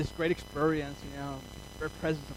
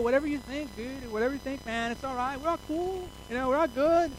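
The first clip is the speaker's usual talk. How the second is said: laid-back dude; 8 semitones higher than usual. Pretend.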